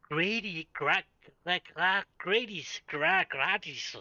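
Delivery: gratis said like "Grady's"; imitated mispronunciation. Danish speaker mocking how Scots say a word, mock mispronunciation of gratis. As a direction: stumble over gratis as "gra-, Grady's". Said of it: "the Scottish people over there, they like to say".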